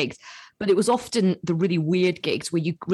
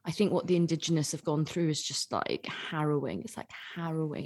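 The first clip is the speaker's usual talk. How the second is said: earnest pity, quietly; a hint of a pious student, hushed; mock solemn; 7 dB quieter than usual. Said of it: "she was always going".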